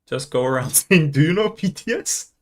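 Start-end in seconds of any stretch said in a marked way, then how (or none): 1.1-2.3 high, rising mock-eager question; mock eager questioner. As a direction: pester a stranger with put-on enthusiasm. Acting out pestering strangers.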